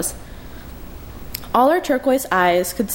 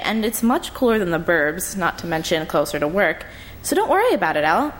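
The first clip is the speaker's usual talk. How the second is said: chatty sister. Acted. Lee reassures her sister.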